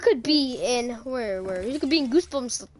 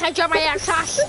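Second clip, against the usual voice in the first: lightly mocked cartoon kid; a hint of slushy kid speech; cartoon kid imitation. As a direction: mimic the cartoon kid's mushy words. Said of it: "Do you know the kid that says".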